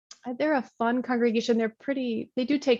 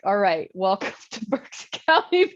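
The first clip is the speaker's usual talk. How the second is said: 1 laughing welcome; 3 dB louder than usual. Retold or imitated.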